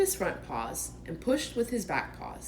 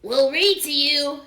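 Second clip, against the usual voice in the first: cheerful; 8 semitones higher, 10 dB louder than usual. Acted. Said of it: "said Rabbit cheerfully".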